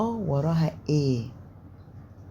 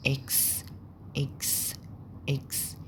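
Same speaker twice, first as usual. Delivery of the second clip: soft letter drill; 7 dB quieter, slower than usual. Shown as a demonstration. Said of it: "repeating letter names quietly".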